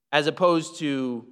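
ordinary delivery

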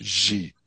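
"Ji" as one syllable; Tibetan pronunciation demo. Shown as a demonstration. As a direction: say "Ji" for the spelling G Z H I, as one sound. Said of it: "which is pronounced".

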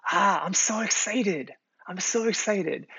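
put-on high-pitched, gushing kid excitement; brimming with joy. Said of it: "brimming with joy".

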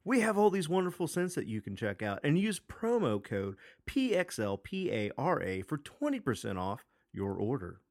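upbeat infomercial pitch. Acted. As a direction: sell it like a TV ad. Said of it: "Is that your infomercial voice".

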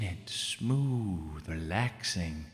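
Bill Cosby. Acted. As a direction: croon it low like a smooth old comic. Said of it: "You sounded like Bill Cosby for a second".

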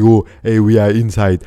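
wide-open vowels, jaw dropped; demonstrating open-mouthed speech; big open mouth. Shown as a demonstration. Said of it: "like this with a big mouth open".

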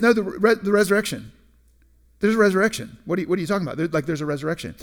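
mildly exasperated correction; retold brisk rebuke; corrective. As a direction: correct them pointedly, as if stating the obvious. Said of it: "Jesus kind of corrects her".

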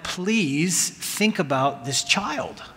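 slow, earnest plea; begging them to think of the boy, slowly; slow pleading. Retold or imitated. Pleading with the couple for the child, slow and earnest. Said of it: "And I'm like".

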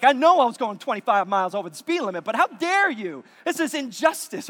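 hammed-up self-righteous rant, fast; mock indignation. Mock outrage at being pulled over.

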